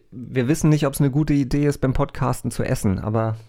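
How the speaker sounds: talking with mouth full; chewing while speaking. Real, not acted. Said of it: "nicht mit vollen Mund hier sprechen".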